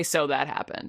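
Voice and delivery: low, flat Nick Cage deadpan; Nick Cage impression. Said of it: "he uses his Nick Cage face to say".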